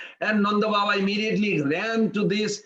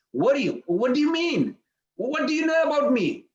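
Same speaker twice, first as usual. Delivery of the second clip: curious; 6 semitones higher than usual. Retold or imitated. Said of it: "Krishna started feeling curious".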